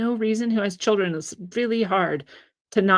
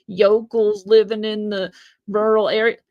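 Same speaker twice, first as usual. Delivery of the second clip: louder sneering impression of a condescending leftist; hammed-up snobbish mockery; mocking quote; 5 dB louder than usual. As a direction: sneer it like a smug elitist. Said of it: "They come out with this all the time".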